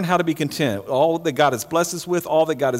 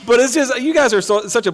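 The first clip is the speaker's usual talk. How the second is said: laughing thanks; 7 semitones higher, 4 dB louder than usual. Real, not acted. Laughing while thanking congregation.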